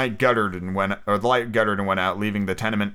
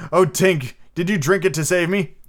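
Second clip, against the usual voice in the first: higher, anguished question; distressed plea; 6 semitones higher, 4 dB louder than usual. A narrator's reading. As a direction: ask her in dismay. Peter realises Tink's sacrifice, distressed.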